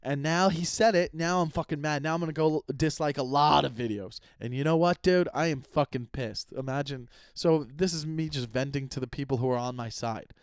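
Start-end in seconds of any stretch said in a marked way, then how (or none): 0.0-6.5 higher, louder hammed-up hater rant; mock angry troll. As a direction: play a petty troll fuming that he finally got mentioned. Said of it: "How funny if they're like".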